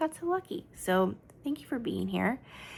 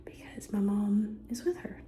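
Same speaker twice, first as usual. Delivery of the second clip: whispering; 3 dB quieter than usual. Real, not acted. Whispering near sleeping baby.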